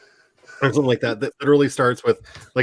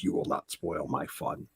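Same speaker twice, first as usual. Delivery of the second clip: friend's voice; 8 semitones lower, 13 dB quieter than usual. Retold or imitated. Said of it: "my poor unfortunate straight friend was like".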